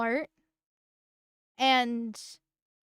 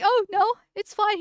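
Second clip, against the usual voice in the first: mock Arch; 8 semitones higher, 4 dB louder than usual. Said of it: "And Arch was like".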